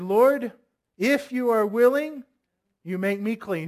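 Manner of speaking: lightly voiced petitioner asking Jesus; a touch of earnest appeal; pleading leper. Acts out leper's plea to Jesus.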